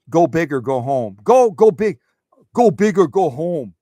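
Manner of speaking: loud, pumped-up go big cheer; rally them like a coach; cheering quote. Retold or imitated. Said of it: "she always is like".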